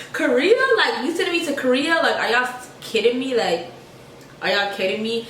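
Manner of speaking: can't believe it's Korea; shocked disbelief. Retold or imitated. Retold shock at Korea assignment.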